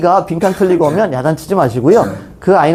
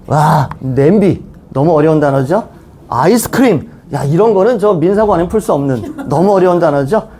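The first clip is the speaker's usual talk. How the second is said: sarcastic awe, drawing out the exclamation; mock amazement. Teacher ridiculing easy exam words as killer questions, mock-awed. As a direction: marvel in mock dismay at a supposedly hard word.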